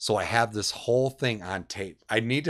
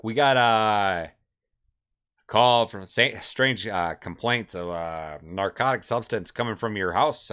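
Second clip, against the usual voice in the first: lightly acted police officer, louder at the start; pretend cop; 5 dB louder, slower than usual. Prank-calling a friend about a drug complaint, pretend cop. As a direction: put on a bit of official cop talk. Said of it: "I'm acting like a cop".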